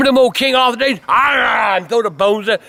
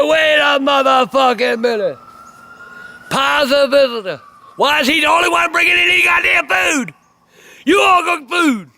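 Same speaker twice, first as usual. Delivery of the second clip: indignant shout; 3 semitones higher than usual. Retold or imitated. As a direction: call the room out on hogging the food. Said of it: "He said".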